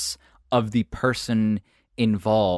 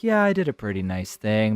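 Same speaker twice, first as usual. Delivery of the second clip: lower, offhand man's voice; casual male reply; 4 semitones lower than usual. Acted. Man answering her compliment in the car, low and casual. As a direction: drop the pitch and shrug it off. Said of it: "And he's like".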